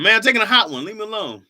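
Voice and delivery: lightly hammed-up kid brother shooing you away; imitating brother. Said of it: "what me and my brother used to say".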